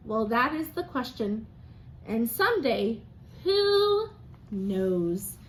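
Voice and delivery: lively storybook narration; reading to children. A narrator's reading. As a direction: read it like story time for a class. Teacher reads picture book aloud.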